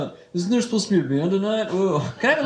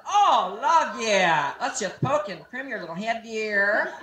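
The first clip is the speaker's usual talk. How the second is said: lightly hammed-up, cooing hairdresser; playful hairdresser coo, softening toward the end; mock hairdresser; slower than usual. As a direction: fuss over a client, imitating a hairdresser. Acts out a fussy hairdresser.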